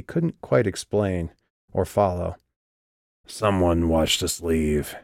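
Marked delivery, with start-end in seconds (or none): 3.3-5.0 sandblasted voice. Acted. Vikas warning Calliope they were followed, slow gritty voice. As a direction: let it scrape out slowly, matter-of-fact. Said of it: "in his normal sandblasted voice".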